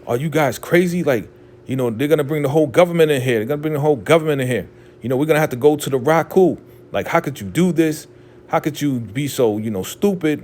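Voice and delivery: mild mock outrage, rushing in places; highly upset. Upset leader scolding the elder mother over the killing, agitated. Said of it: "the Highest is highly upset".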